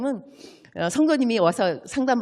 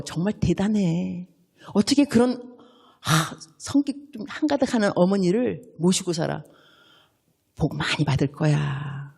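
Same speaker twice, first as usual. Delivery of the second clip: warm praise. Shown as a demonstration. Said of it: "이렇게 말씀하셔야 돼요".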